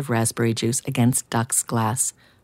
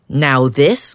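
grumble; 5 dB louder than usual. Acted. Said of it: "grumbled Duck".

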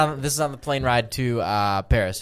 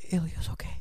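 whispering; 4 semitones higher, 8 dB quieter than usual. Retold or imitated. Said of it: "I'm whispering to her".

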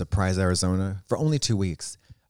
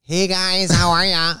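put-on girly greeting; 9 semitones higher, slower than usual. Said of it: "I'm like".

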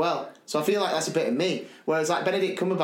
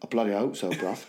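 Cockney John; 6 semitones lower than usual. Retold or imitated. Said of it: "He went".

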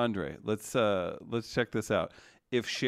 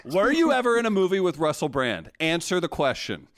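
louder, higher playful grilling; excited teasing; 6 semitones higher, 4 dB louder than usual. Real, not acted. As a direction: demand the answer with a grin. Teasing interrogation.

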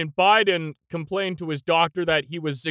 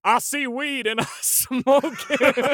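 put-on Southern accent; 4 semitones higher than usual. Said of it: "do a Southern accent for that one".

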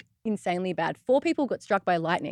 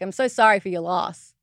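broad Australian accent; 4 dB louder than usual. Shown as a demonstration. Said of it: "more Aussie".

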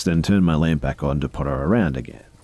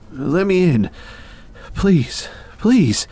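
high, loud pleading through an intercom; muffled phone voice; 5 dB louder, much slower than usual. Acted. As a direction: beg through a crackly door speaker. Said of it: "I could hear a muffled voice".

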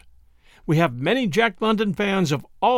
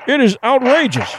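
high, outraged cry; indignant cry; 7 semitones higher than usual. Acted. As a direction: cry out in scandalised alarm. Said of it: "Consul Linkford cried".

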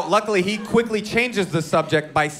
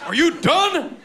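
much higher, squeaky mock-polite ask; repeating the question even higher; higher prissy question; 10 semitones higher, slower than usual. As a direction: pipe it up like a prim little voice.

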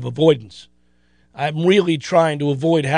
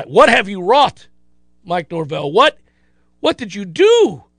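mock anguished lament. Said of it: "I was so mad".

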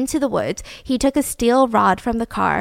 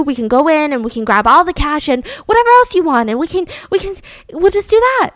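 higher-pitched mock pleading, tumbling onward; anxious placating; 4 semitones higher than usual. Margaret offering her parents' cash to her robber, imitated anxious pleading. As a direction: imitate bargaining to calm everyone down.

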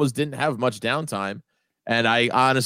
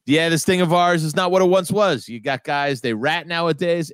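lightly voiced old mobster, pitched up a little; old mafia guy; 3 semitones higher than usual. Old mobster lamenting that guys rat nowadays, mildly aggrieved. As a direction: grumble like a Sopranos old-timer, lightly acted. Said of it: "all the old mafia guys".

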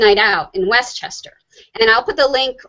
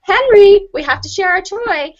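high, louder, near-screaming mom; high strained voice; 8 semitones higher, 4 dB louder than usual. Retold or imitated. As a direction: call out to him, pitch climbing. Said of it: "my voice got higher and higher".

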